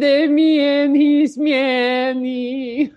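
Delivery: high, slow, hammed-up Russian accent; mock Russian accent. Quoting Malkovich's Rounders lines in hammy Russian accent. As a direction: drag it out like a bad Russian gangster.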